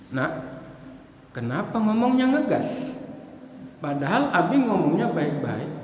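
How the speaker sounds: mildly reproving, unhurried parent; calm question to a child, voice kept down; gentle correction. Acted. Father asks child why they talk sharply, gently. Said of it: "kita jawabnya pelan-pelan".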